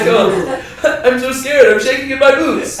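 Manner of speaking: laughing mock-scared voice; sarcastic mock fear. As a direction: pretend to tremble, clearly joking. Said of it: "sarcastic mock fear".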